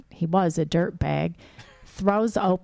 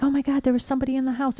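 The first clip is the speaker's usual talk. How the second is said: excited; 7 semitones higher, much faster than usual. Retold or imitated. Panicked girl telling mom.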